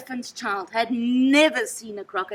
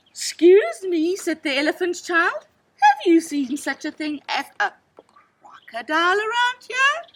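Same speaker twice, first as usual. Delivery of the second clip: put-on eager child asking; 6 semitones higher, 7 dB louder than usual. A narrator's reading. Child asks the hidden crocodile.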